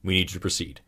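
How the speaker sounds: soft, level request, no force; a quiet experimenter repeating himself; calm repetition. Retold or imitated. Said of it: "They just would say over and over".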